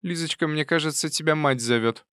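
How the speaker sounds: lightly voiced old aunt sending her off; a hint of a sly old aunt. A narrator's reading.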